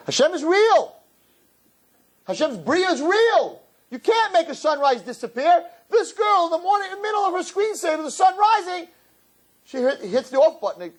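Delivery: high, impassioned preacher voice; high passionate declaration; fervent preaching. Acted. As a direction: proclaim it with fire. Preaching at full force.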